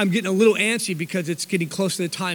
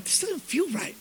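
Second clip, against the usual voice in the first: quiet aside; 8 semitones higher, 8 dB quieter than usual. Retold or imitated. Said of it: "I'm like".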